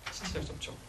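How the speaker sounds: whispered 신체적 접촉. Shown as a demonstration. Lecturer stressing touch to parents, whispered. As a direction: let the key phrase drop to a whisper.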